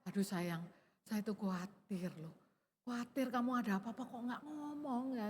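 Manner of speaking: soft, caring plea to a loved one; gentle and tender. Shown as a demonstration. Wife telling late husband she was worried, tender and soft. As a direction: say it softly, showing worry not anger. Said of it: "coba ngomongnya".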